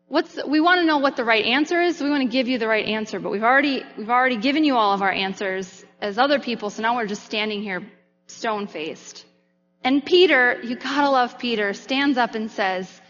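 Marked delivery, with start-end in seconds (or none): 0.1-9.2 rushed disciples. Retold or imitated. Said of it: "they're really trying to say".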